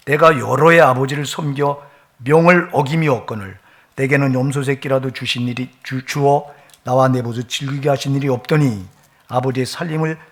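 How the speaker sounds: loud bitter scripture line; loud scripture reading. Acted. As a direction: read the son's grievance out strongly. Reads elder son's complaint.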